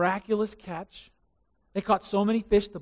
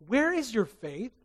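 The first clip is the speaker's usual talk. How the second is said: gentle rebuke; 3 semitones higher, slower than usual. Acted. Jesus asks after calming storm.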